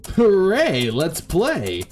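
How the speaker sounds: high, loud cheer of delight; lit-up little girl. Acted. Little girl to her new playmate, thrilled and cheering. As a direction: squeal it out like a child who gets to play. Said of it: "The girl lit up".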